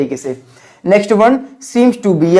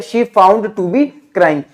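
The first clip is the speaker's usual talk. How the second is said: slow repeat for learners; much slower than usual. Shown as a demonstration. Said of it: "क्या बोले यहाँ पे?".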